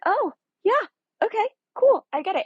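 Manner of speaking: high, loud giddy acceptance, easing at the end; retold excited reaction. Viewer won over by the romantic scene, retold giddy reaction. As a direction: act out being suddenly won over.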